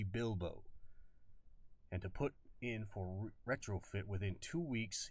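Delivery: lightly Southern colonel; a hint of an old Southern family drawl; stern colonel briefing in a light Southern drawl; faint Southern drawl. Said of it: "He had the old faint drawl".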